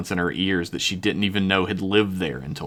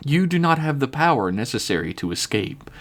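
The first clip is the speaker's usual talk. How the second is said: calm; 4 semitones higher than usual. Acted. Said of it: "Nil said calmly".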